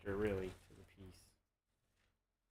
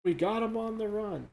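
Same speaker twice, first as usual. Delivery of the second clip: cartoon villain voice; 10 semitones higher, 4 dB louder than usual. Continues villain quotes.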